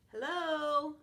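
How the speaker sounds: loud, high call at the gate; dog barking hello. Acted. Trapped puppy calling out to the house, loud and high. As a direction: shout it out like a bark. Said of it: "I bark".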